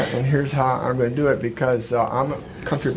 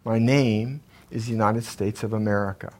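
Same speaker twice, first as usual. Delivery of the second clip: patriotic recitation. Acted. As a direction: recite it like a stirring salute to the nation. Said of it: "This goes this way".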